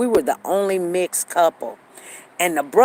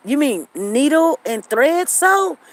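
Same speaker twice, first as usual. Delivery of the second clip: mocking sarcasm; 7 semitones higher, 3 dB louder, slower than usual. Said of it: "He said".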